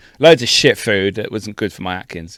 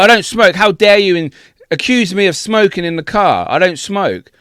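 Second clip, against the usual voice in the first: imitating angry man; 6 semitones higher than usual. Retelling the bald Irishman shouting at the hire-car woman, mock indignation. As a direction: play the offended customer, hammed-up outrage. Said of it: "he was so angry".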